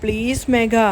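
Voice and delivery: drawn-out plea to her friend; pleading. Acted. Aarathi begs Megha for help, slow and pleading. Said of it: "beg ചെയ്തുകൊണ്ടേ ഇരിക്കുകയാണ്".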